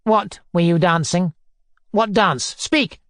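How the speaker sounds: short demands climbing in pitch; imperious questioning; bullying interrogation. Acted. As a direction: press for an answer, word by word. Foma interrogates the crying boy.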